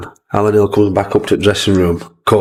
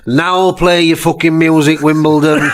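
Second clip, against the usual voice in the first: mock shout; 6 semitones higher than usual. Clough smashing the ghetto blaster.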